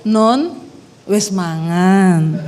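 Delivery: lightly voiced Solo husband, falling slow ending; husband's Javanese. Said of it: "dia kalau nanya saya". (logat Jawa suami, nada turun pelan)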